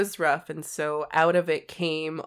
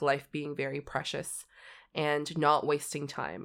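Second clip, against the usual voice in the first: usual speaking voice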